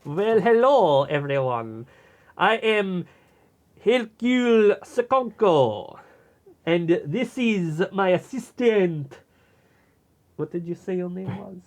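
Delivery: put-on low, slow Belgian detective accent; a pompous Belgian sleuth accent. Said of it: "We were just doing a bit".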